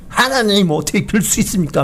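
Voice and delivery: mildly acted protest to God; retold angry protest. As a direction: imitate Jonah's indignant appeal, without shouting. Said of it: "하면서 막 몹시 분노하는". (하나님께 따지는 요나를 흉내 낸 가벼운 분노)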